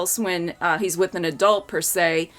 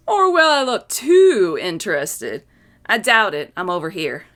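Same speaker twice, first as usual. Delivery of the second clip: Calvin scheming; 5 semitones higher than usual. Acted. Calvin telling Hobbes plan.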